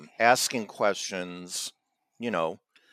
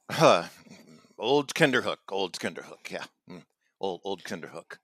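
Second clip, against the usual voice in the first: mock impressed townsfolk; 2 semitones lower than usual. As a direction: play a villager savoring the nickname, trailing off. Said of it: "you're getting a little too overexcited here".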